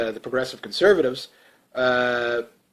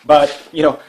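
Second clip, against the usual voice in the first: ordinary delivery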